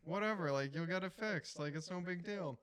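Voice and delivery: a hint of gruff, dismissive old guy; nice old guy. Old neighbor shrugging off the alarm, lightly imitated. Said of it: "he's just a nice old guy".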